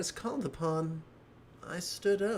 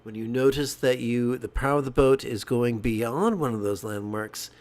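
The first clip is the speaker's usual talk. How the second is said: louder, firm instructions over a motor; stepfather's instructions; 4 dB louder than usual. Retold or imitated. Stepfather telling the boy how to steer, louder and firm. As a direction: call out firm steering orders.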